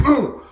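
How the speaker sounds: high, loud hit sound; explosive punch sound effect; shouted impact boom. Retold or imitated. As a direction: burst out a knockout "boom". Imitating another stomp.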